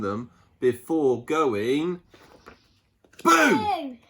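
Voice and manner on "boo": sudden high playful BOO; cheeky boo shout. A narrator's reading. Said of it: "he shouted".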